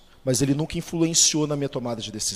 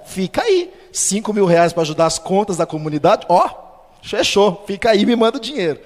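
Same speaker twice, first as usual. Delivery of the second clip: higher, louder playful urging; joking eager pastor; 4 semitones higher, 6 dB louder than usual. Retold or imitated. Pastor joking over the phone, eager and loud. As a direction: egg him on as a joke.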